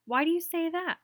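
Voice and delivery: teacher startled by a student's praise; surprised. Acted. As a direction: ask in moved surprise.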